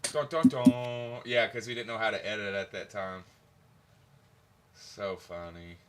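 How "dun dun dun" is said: slow mouth sound effect. Shown as a demonstration. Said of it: "do the sound effects with my mouth".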